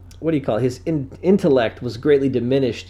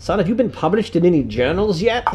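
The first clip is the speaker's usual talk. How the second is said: a hint of a stern father; mild mock grandfather. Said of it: "and he's like".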